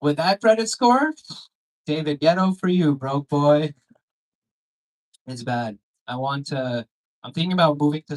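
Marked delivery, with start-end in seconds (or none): 0.0-3.7 sassy Siri voice. Retold or imitated. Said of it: "And she's like".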